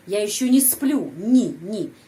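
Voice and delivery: "не" with an i sound, not e; не pronounced "ni". Shown as a demonstration. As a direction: say не as a short "ni". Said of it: "ucapannya не". ("не" diucapkan "ni")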